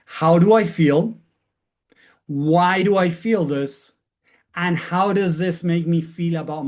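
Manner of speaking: slow and weighty, each question left hanging; slow, deliberate questions. Shown as a demonstration. Teacher modelling the questions for students, slow and deliberate. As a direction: ask yourself slowly, letting it land. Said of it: "wanna share them with you to start practicing".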